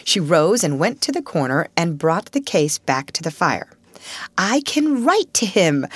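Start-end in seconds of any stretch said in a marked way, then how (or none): 4.3-5.8 lifted and eager; glad, bubbling up with the idea; a girl thrilled by her plan; joyful. A narrator's reading. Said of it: "she said joyfully".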